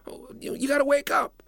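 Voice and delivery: breathy whisper, urgent; whispered urging. Acted. Boy whispers urgently to the king. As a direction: hush it out.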